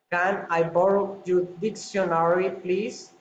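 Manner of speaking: polite request rising on "please"; rising intonation. Shown as a demonstration. Teacher demonstrates a request, rising intonation on "please". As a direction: lift the final "please". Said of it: "rising intonation".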